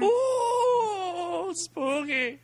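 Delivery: very high, spooky mock wail; horror monster voice. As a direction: moan it like a cartoon ghost. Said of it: "the horror monster voice".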